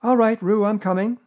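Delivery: high, loud call; Christopher Robin. A narrator's reading. Boy hurrying to the rescue, calling out. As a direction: call out that help is on its way. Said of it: "called Christopher Robin".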